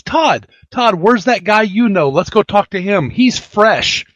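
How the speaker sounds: high, eager mimicry of a friend; playfully acted-out excited urging; imitated eager call. Acts out Michelle's eager call to Todd.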